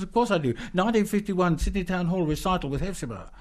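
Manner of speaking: high, eager boast; eager fan. Retold or imitated. Fan telling the poet about the recital, high and eager. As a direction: proudly rattle off the recital.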